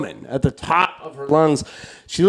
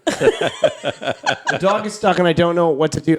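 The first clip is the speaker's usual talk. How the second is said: slow, drawn-out mock helplessness; mock-distraught, words stretched out; helpless plea; 3 semitones higher than usual. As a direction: retell it as a hammed-up helpless plea. Replays the helpless plea, exaggerated.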